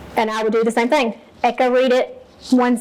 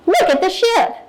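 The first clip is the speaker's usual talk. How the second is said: high, bright burst of excitement on each word; exclamation reading; 8 semitones higher than usual. Shown as a demonstration. Teacher modeling for young readers, excitedly exclaiming. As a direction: read it like it ends in an exclamation point. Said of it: "if this had an exclamation point and I read it as".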